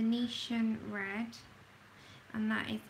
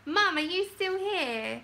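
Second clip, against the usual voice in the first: calling out for Mum, higher, louder and slow; 7 semitones higher, 5 dB louder than usual. Real, not acted. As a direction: call to your mum to check she's there.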